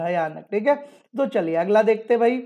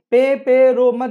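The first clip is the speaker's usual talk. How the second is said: emphatic mnemonic; 3 semitones higher, 6 dB louder, slower than usual. Shown as a demonstration. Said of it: "कैसे याद रखोगे".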